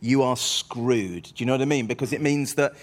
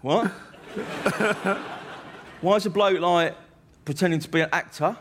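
puzzled, higher-pitched questioning; baffled; 4 semitones higher than usual. Retold or imitated. Club audience puzzled by the act, baffled. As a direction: ask in mock bewilderment. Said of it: "like, baffled".

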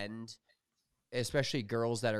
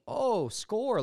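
high, loud delighted exclamation; thrilled little whoop of luck; retold tingly excitement; 12 semitones higher, 7 dB louder than usual. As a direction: cheer a lucky card, pitch leaping up. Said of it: "I got a little tingly".

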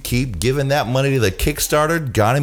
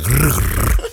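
playful monster growl; 5 semitones lower than usual. Retold or imitated. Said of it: "And I said".

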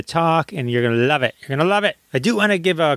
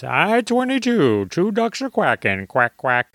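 bingo caller. Retold or imitated. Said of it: "the cruise directors doing bingo".

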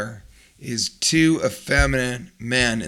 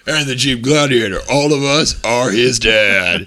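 lightly voiced dad; 5 dB louder than usual. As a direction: lay it out like a proud father. Dad voice, slow, louder.

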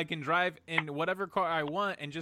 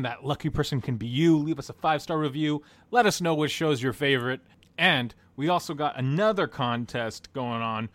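ad read. Acted. Reads podcast contest promo.

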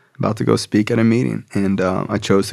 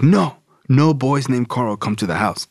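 firm, raised-pitch retold refusal; indignant dad; 4 semitones higher than usual. Dad to son about an unwelcome friend, indignant. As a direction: play a dad laying down the law.

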